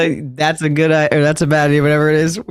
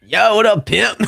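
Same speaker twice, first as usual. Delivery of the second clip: higher, playful dude greeting; mock dude voice; 5 semitones higher than usual. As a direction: bro voice for Jeff, a notch up. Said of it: "If he sounded like that".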